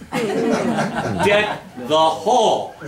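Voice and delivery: slow Deck the Hall, no s, with a laugh; drawn-out Hall without s, teasing; singular hall. Shown as a demonstration. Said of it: "It is not Deck the Halls".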